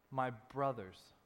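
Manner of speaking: slow, soft lean on my brothers; gentle and slow on my brothers; tender emphasis. Retold or imitated. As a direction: say my brothers with intimacy. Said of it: "There's an intimacy there, a kindness".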